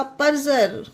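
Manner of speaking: परजर with "jer" at the end; परजर, ज in place of ड. Shown as a demonstration. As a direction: say परजर with a J sound for D. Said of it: "डी का उच्चारण जा होएगा".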